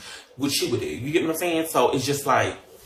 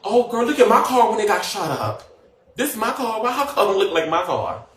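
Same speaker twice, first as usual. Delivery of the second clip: mocking gossip voice; 7 semitones higher, 3 dB louder than usual. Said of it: "bitches was saying".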